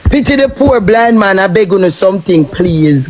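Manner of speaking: lightly voiced mock blind beggar asking for alms. Mocking a rival on a live stream, a hint of a beggar's plea. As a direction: plead like a beggar with a bowl, in mockery. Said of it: "All you need is a dark glasses and a bowl hat".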